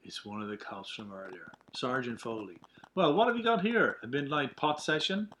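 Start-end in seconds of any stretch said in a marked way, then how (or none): 2.9-5.3 smug cop. Acted. Cop catches them smoking.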